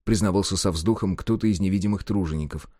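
steady storyteller's reading; story narration. A narrator's reading. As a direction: read the tale evenly to listeners.

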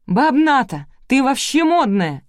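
high, loud, slowed exclamation; excited cry. A narrator's reading. Girl thrilled by grandma's makeover, crying out. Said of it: "закричала девушка".

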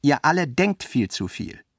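mild heated Clarisse cutting in; vehement interruption. Acted. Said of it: "Clarisse unterbrach ihn heftig".

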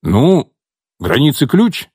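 put-on timid, childlike asking; childlike hesitancy. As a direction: ask unsure like a shy kid. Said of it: "с какой-то детской неуверенностью в голосе спросил Дима". (с детской неуверенностью)

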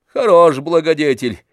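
loud, poisonous scoff on хорош; venomous sneer. A narrator's reading. Tarantyev mocks Oblomov's benefactor, venomous loud sneer. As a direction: drip venom over the word. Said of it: "ядовито продолжал Тарантьев".

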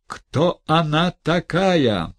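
high, loud and slow; shocked demand. Acted.

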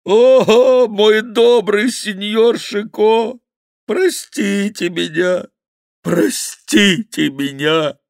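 high, loud, slow pleading wail; whining fat monk begging mercy. Acted. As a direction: grovel for forgiveness at his feet. Monk begging Chicot for pardon.

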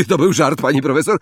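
loud, high mock-innocent excuse; cheeky apology to the teacher. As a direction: wriggle out of trouble cheekily. Lee excusing himself to professor.

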